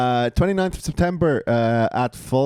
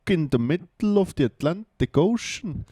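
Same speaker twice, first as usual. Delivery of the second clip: put-on Icelandic accent; 2 semitones higher than usual. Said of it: "that was Icelandic".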